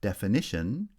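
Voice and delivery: main stress on "ni" in "Definition"; "Definition", lighter stress on first syllable, main on third; third-syllable primary stress. Shown as a demonstration. Teacher showing stress shift, third syllable strongest in "Definition". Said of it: "secondary stress on the first syllable and primary".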